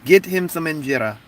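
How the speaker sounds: lightly put-on Ethiopian accent. Grandma ordering food for someone, mock Ethiopian accent. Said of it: "That's my Ethiopian accent".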